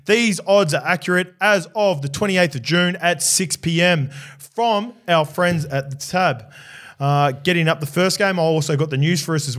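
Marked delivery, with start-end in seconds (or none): 0.1-6.4 higher, slow segment announcement; podcast presenter read. Real, not acted. Host introducing the round preview and sponsor odds, presenter delivery. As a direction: present it deliberately, stretching the key phrases.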